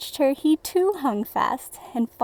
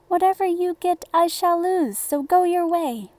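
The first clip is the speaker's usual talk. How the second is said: higher, dismissive brush-off; lightly voiced rude son; 7 semitones higher, 4 dB louder than usual. A narrator's reading. A hint of the proud second son brushing off the old man, higher and dismissive. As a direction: wave off the beggar with a raised voice.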